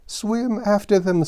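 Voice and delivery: high shrill-pitched scream of the Gryphon. Acted. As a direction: scream it out wildly. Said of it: "screamed the Gryphon".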